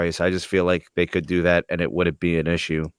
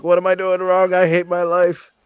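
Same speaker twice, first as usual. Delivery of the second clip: mock despair; 9 semitones higher than usual. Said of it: "I'm like".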